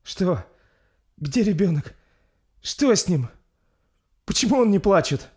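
high, loud panicked mother; frightened cry. Acted. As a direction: scream in fear for her baby. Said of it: "Испуганно закричала принцесса".

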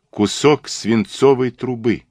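name the clue gravely and deliberately; serious tone. Acted. Detective leaving the room with a parting clue, serious. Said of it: "произнёс Пуаро серьёзным тоном".

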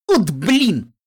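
loud groaned curse; groaning. Acted. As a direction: groan it out, fed up. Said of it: "простонал Каламити".

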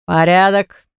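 ordinary delivery, nothing marked

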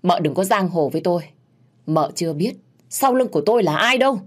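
defiant warning. Acted. Narrator warns mợ Diệp not to bully her, defiant. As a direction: warn her off boldly. Acted quarrel, warns off rival.

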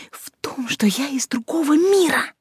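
breaking into a frantic whisper; hushed, panicked confession; hysterical whisper. Acted. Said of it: "голос сорвался на истерический шёпот".

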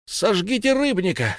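cry. Acted. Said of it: "крикнул Уллиншпигель".

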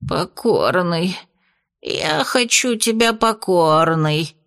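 медленно, сонно и с отчаянием; сонная отчаянная просьба. Acted. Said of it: "произнёс с отчаянием". (бес во сне просит с отчаянием)

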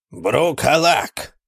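ordinary delivery, nothing marked

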